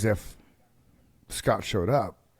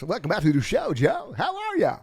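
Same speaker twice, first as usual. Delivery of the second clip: radio voice; 6 semitones higher, 3 dB louder than usual. Shown as a demonstration. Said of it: "Did you like the radio voice?".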